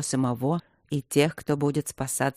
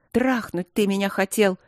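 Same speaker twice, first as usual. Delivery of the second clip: sharp, higher angry accusation; angry retort; 4 semitones higher than usual. Acted. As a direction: spit it at him in anger. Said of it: "Зло бросила она ему в лицо".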